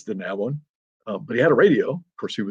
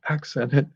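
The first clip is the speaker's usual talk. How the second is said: accented lifted higher as the strong beat; 3 semitones higher, 4 dB quieter than usual. Shown as a demonstration. Speaker teaching writers the pulse, lifted strong beat. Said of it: "You hear iambic pentameter".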